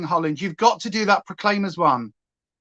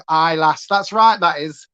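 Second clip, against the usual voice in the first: light mock Yorkshire; 4 semitones lower than usual. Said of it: "sound dead Yorkshire".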